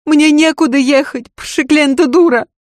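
loud, high furious outburst; screaming. Acted. Lady screams at her maid in fury, loud. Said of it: "завопила Лазарева".

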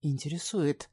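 ordinary delivery, nothing marked

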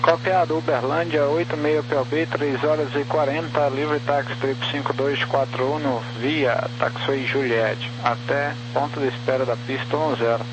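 like a voice through a crackling radio; crackly military radio. Real, not acted. Pilot over crackly radio.

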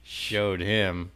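low, soft muttered insult. Acted. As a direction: grumble it under your breath. Muttered insult after leaving.

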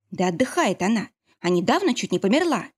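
ordinary delivery, nothing marked

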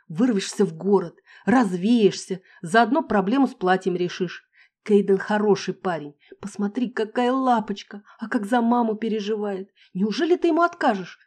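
high, eager friend pushing her; coaxing girlfriend voice. Acted. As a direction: talk her into it, sweetly.

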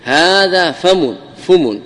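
هذا فم said fumu, the f taking the mim's u; فم بإتباع الفاء; f matches the mim. Shown as a demonstration. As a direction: make the f echo the mim's vowel in فم. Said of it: "تتبع الفاء حركة الميم".

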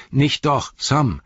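lightly voiced hobbit, urgent appeal; Frodo, gently restraining. Frodo stops Sam from killing the villain, urgent restraint.

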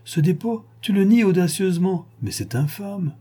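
a hint of a stern, indignant wife; lightly voiced mother condemning the crime. Mother lecturing her son and husband, lightly indignant. Madame Borel denounces the crime.

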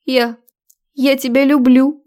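falter, then offer love too sweetly; cloying confession. A narrator's reading. Woman declares love to the man she wronged, cloying. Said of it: "от её приторных слов".

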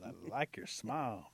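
slow, lingering compliment; admiring flirtation.

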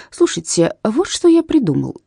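light up with a new plan; eager. A narrator's reading. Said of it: "вдруг снова загорелся Бузик".

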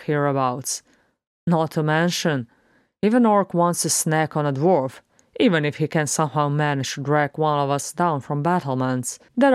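lightly voiced, lively dwarf; irreverent dwarf. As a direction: hold forth as a cheeky dwarf, punching key words. Beaufort argues about orcs.

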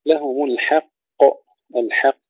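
الحق with thin ha before heavy qaf; light ha. Shown as a demonstration. Teacher models الحق, light ha before qaf. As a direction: keep الحق thin until the bounced qaf. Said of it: "ترقيق الحاء جيدا".

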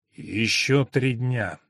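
slow, hollow voice from the grave; drawn-out sepulchral murmur; ghostly voice. Acted. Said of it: "произнёс слабый, глухой, замогильный голос". (замогильный голос)

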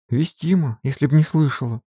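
high, tearful peasant voice; mock sobbing maid. Maid Marfa answering her mistress through tears. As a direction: sob it out like a simple maid. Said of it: "всхлипнула Марфа".

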